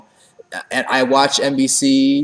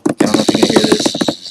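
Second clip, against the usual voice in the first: mock drum roll; 5 dB louder, faster than usual. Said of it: "we get the little drum roll".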